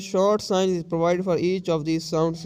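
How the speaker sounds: very slow, word by word from the book; slow reading aloud. Shown as a demonstration. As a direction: dictate it slowly to the class. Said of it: "teacher reads the book aloud slowly".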